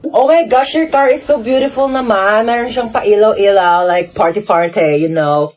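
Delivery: slow, drawn-out socialite Taglish, falling in pitch; lightly voiced haughty conyo; spoiled conyo rich girl. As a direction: gush like a pampered rich girl. Rich girl admiring police car.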